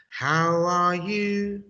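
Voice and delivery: call-and-response model with "are" stressed. Shown as a demonstration. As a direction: lean on "are" in a slow model. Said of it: "I do the English".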